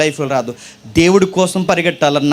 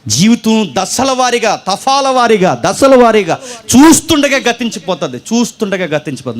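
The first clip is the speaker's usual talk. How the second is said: preaching climax; 4 semitones higher, 4 dB louder than usual. Acted.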